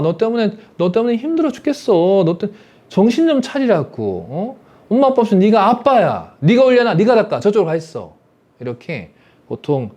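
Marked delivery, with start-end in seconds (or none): 0.0-2.2 put-on higher, nagging complaint at the child; a fed-up mom scolding her son; exasperated mother. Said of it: "어떻게 하냐?". 2.2-8.1 put-on higher, sharp orders to the child; scolding mother. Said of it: "어떻게 하냐?".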